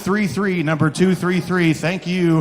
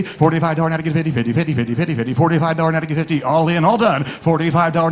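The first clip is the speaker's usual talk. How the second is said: rapid rolling auction chant; auctioneer; faster than usual. Acted. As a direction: rattle off bids like an auctioneer.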